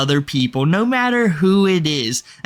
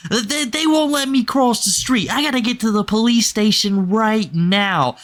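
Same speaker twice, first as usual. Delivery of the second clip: imitating Andrew on the phone; 5 semitones higher than usual. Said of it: "oh my God, he's talking to me".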